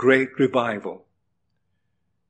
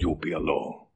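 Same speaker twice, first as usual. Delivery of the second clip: soft emphasis; 9 semitones lower, 10 dB quieter, faster than usual. Real, not acted. Preacher drops voice for emphasis.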